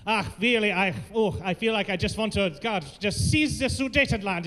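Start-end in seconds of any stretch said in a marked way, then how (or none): 2.6-4.5 lightly put-on German accent at ordinary pitch; conversational mock German. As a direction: muse with a comic German accent. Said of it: "in this accent".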